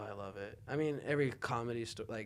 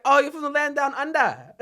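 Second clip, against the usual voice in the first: high, loud mocking jab; 19 dB louder than usual. A comedian teasing the Australian, loud mocking tone. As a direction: sneer it like a roast. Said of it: "He's like".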